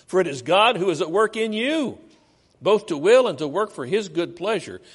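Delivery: loud, measured Bible reading; scripture reading. Acted. Preacher reads Philippians chapter two to the congregation, proclaiming. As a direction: proclaim the verses to the church.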